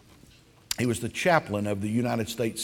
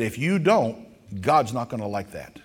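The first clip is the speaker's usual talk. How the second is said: stern mother. Retold or imitated. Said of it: "And she said".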